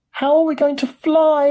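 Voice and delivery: very high, loud questioning; alarmed question. A narrator's reading. Grandpa Joe alarmed in the lift, high questioning cry.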